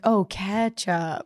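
Oh, ketchup drawn out slowly as it dawns; slow "Oh, ketchup" as the penny drops; slow realization. Retold or imitated. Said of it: "I had to take a minute and be like".

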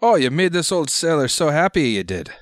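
put-on high, loud delighted old sailor; gruff old fisherman. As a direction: gush like a thrilled old seaman. Old sailor overjoyed at gold.

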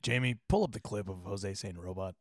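lightly voiced podcast host calling for a clip; Joe Rogan impression. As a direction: play Rogan asking his producer for a clip. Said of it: "what does Joe Rogan sound like?".

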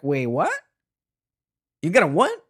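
high, loud "you gotta what?"; retelling his own shocked outburst at the leader; shocked disbelief. Retold or imitated. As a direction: blurt it out, stunned. Acted shocked reaction to cult leader.

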